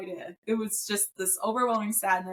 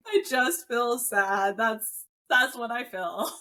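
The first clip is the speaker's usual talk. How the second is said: put-on childlike sad voice; slower than usual. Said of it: "sinking into the child part of my brain".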